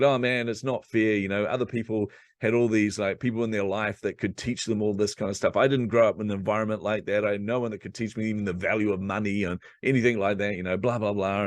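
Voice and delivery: mock whining pity party; self-pitying whine. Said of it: "having a pity party".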